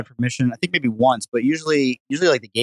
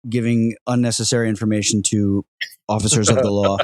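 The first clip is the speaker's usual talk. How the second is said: mock disclaimer; 2 semitones lower than usual. Host disclaiming the guest's advice about police, mock formal. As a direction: lightly play the official announcer, deliberately paced. Joking legal disclaimer for the show.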